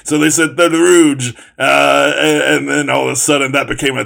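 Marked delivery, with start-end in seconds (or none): 0.6-1.3 rouge said the French way, a touch louder; a put-on French accent on rouge; mock French accent. Retelling a dumb rules story in a mock French accent. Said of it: "said it in that stupid, uh, French accent".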